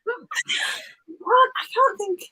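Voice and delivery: whispered to herself. Real, not acted. Unable to recall the Welsh word, whispering. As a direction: breathe it, searching for the word.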